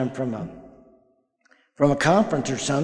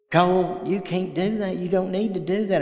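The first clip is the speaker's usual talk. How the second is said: stern grandpa warning; 5 semitones higher than usual. Retold or imitated. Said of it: "I wanted to say".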